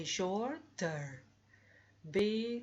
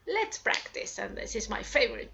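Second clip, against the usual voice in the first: excited whisper; 3 semitones higher than usual. Real, not acted. Teacher to class, eager whisper about practice. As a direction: whisper it like a secret treat.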